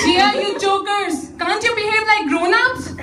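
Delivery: cross scolding. Acted. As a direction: call the giggling children to order. Mother scolds laughing children.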